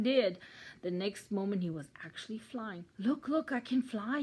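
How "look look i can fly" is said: high, loud, thrilled; excited high-pitched outburst; gasped excitement. A narrator's reading. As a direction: exclaim in delighted amazement. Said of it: "he gasped".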